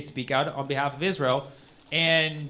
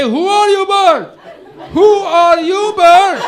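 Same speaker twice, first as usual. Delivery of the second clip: very high, loud cartoonish bear; 13 dB louder, slower than usual. Bear challenges the bird, high loud cartoon voice. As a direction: squeak it as a bewildered bear. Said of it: "Bear say".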